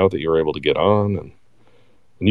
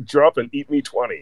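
hammed-up high drill bark; mock boot camp order; drill sergeant; 6 semitones higher than usual.

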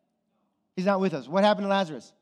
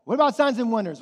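louder acted challenge; challenging question; 3 semitones higher, 6 dB louder, faster than usual. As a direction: put the question out loudly to the church. Acted question put to those churches.

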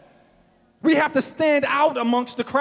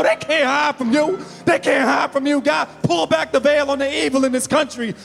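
fervent prayer. Acted. Pastor prays for the country, fervent pleading prayer. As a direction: plead with God to pull back the veil.

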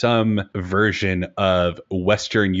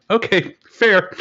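mock resigned; 12 semitones higher, 5 dB louder, slower than usual. Retells his reaction to harsh comment.

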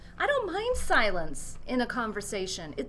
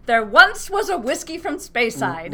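bouncy limerick lilt; 5 dB louder than usual. Shown as a demonstration. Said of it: "I was about to say".

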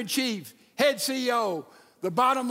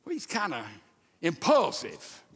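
mock critic; 5 semitones lower, 4 dB quieter than usual. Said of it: "some people criticize Peter and say".

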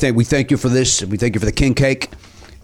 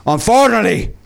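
put-on Cajun accent. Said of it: "doing an accent".

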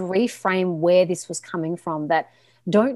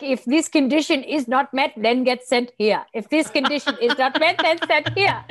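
higher-pitched, breaking into laughter; amused recital; 5 semitones higher than usual. Acted. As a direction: recite the rule through a growing laugh. Jokes about EDM conditions, laughing.

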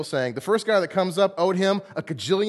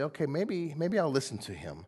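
softened king; 7 dB quieter than usual. Retold or imitated. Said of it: "a little soft at that moment".

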